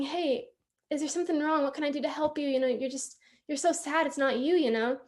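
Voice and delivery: gently imitating a kind, concerned teacher; retold in a mild, caring tone; calm and kind. Teacher approaching a crying pupil to offer help, calm and kind. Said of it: "very calmly, very kindly".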